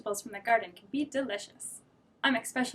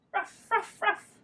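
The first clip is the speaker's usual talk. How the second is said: dog barking; 10 semitones higher, much slower than usual. Acted. Dog answering the daughter with barks. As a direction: bark like a friendly dog.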